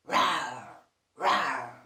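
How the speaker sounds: put-on low, loud playful roar for kids; lion roar. Shown as a demonstration. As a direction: growl it out like a friendly lion. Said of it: "Can you remember the noise of a lion?".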